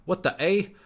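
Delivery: loud, high-pitched hammed-up Canadian accent. Trader playing his emotional Canadian friend, hammed-up Canadian accent. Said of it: "the best I got in terms of my Canadian accent".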